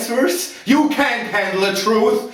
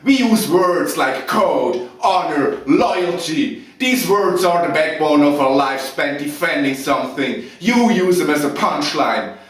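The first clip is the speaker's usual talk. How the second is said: loud, raised-pitch furious outburst; angry tirade; 4 semitones higher, 4 dB louder than usual. Acted. Officer defending himself to Lieutenant Weinberg, loud angry tirade. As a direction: thunder contemptuously, leaning hard on the key words. Officer erupts under questioning, acted monologue.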